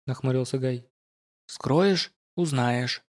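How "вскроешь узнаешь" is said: ingratiating. Acted. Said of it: "вкратчиво ответил Ист".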